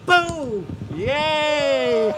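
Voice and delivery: very high-pitched duck puppet; Ducky puppet voice. Pretend. Ducky greeting the kids at church, in high puppet voice. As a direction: squeal it like an excited children's puppet.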